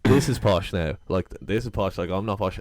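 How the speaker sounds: lightly imitated posh Dublin voice; posh accent. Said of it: "he was like".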